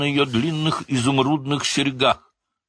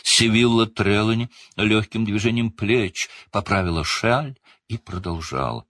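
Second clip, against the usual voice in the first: ordinary delivery, nothing marked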